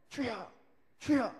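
punchy prayer call. Shown as a demonstration. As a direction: call it out like opening group prayer. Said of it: "이 세 번을 외치고 기도를 시작합니다".

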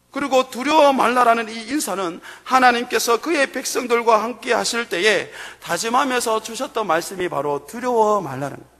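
ordinary talk

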